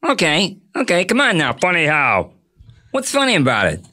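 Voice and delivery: talk-show host's voice, pressing for an answer; lightly mock-menacing comic impersonation; Jay Leno. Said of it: "do that low J voice".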